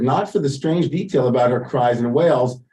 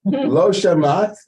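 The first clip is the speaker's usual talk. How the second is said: Satan taunting; 6 semitones higher, much slower than usual. Retold or imitated.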